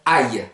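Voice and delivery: slow aïe, as if you hit your finger; aïe said like a cry of pain; aïe like an ouch. Shown as a demonstration. Teacher showing the ai sound as an ouch. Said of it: "comme si vous étiez cogné avec un marteau".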